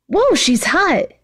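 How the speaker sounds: slow, high mock yell; Mineta's gawking mock yell, high and slow. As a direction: drag out a lecherous whoop. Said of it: "Mineta yelled".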